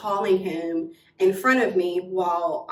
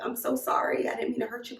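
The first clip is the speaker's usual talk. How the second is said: mock tearful apology, softer and higher; imitated crying; 4 semitones higher, 5 dB quieter, faster than usual. Crying friend apologizes for the betrayal, mock tearful. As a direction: mimic a sobbing apology. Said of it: "Like, she's crying".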